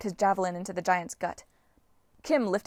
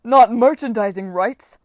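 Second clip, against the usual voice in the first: wailing; 3 semitones higher, 10 dB louder, slower than usual. Acted. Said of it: "Polybides wailed".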